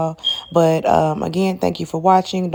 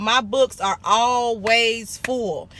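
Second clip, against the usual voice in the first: slow, deliberate affirmation; speaking her affirmation slowly and firmly; much slower than usual. Shown as a demonstration. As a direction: say it slowly like a mantra. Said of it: "I used to say that every day".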